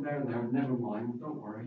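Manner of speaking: gently soothing, fading quiet; mock soothing. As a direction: pat him on the head with words. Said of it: "He didn't say to him".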